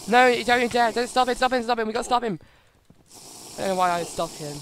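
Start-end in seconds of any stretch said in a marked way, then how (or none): 0.1-2.4 loud, higher urgent yell; urgent shouting. Real, not acted. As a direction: shout to stop him. Urgent call to stop enemy.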